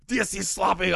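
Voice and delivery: put-on Arnold accent. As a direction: bark it like a giant Austrian action hero. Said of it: "Arnold's like".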